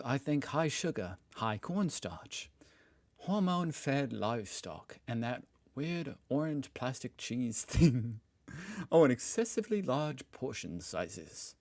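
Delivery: lightly put-on Australian accent, some words slowed. Reading the Australian's complaints in a mock Australian accent. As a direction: read the list like a laid-back Aussie. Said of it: "I'm done with the accent".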